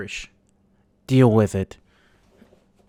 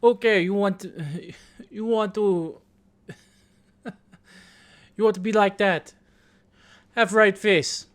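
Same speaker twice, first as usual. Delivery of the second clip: higher-pitched mock sergeant's orders; drill sergeant; 6 semitones higher than usual. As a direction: imitate a sergeant giving commands, lightly hammed-up. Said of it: "and he goes".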